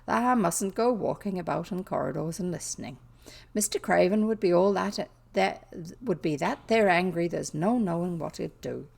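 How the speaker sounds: a touch restless, rough Yorkshire dialect. Acted. Maid warns girl off listening in corridors, mildly restless. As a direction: warn uneasily with an attempted Yorkshire lilt. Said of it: "said Martha restlessly".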